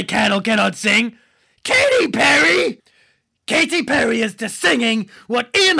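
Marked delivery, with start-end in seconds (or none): 1.6-4.2 outraged. Real, not acted. Outraged rant about judge.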